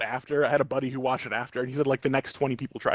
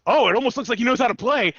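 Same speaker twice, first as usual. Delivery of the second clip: mock smug taunt; 7 semitones higher, 4 dB louder than usual. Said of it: "And he goes".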